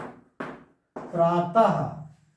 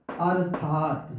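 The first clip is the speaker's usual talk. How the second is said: slow example word; 3 semitones lower, much slower than usual. Shown as a demonstration. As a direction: stretch अर्थात and land on the final त. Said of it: "ता पे हलंत है". (बहुत धीरे अर्थात)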